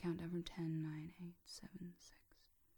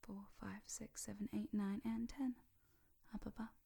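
hypnotic counting up. Shown as a demonstration. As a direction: count them gently upward in a hushed trance voice.

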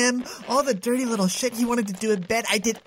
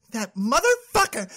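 angry curse. Acted. Cursing boyfriend.

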